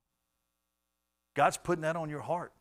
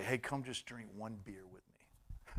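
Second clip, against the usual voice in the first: friend at a bar; 6 semitones lower, 14 dB quieter, slower than usual. Retold or imitated. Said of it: "had a friend say".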